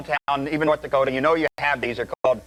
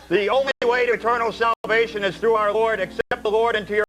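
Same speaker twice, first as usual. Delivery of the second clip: preacher voice; 4 semitones higher than usual. Retold or imitated. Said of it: "the religious nutters".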